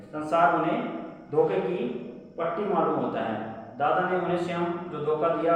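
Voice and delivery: reading the chapter aloud to students; textbook reading. A narrator's reading. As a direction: read the lesson passage to the class.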